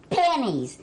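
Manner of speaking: surprised. Acted. Game warden's shocked outburst.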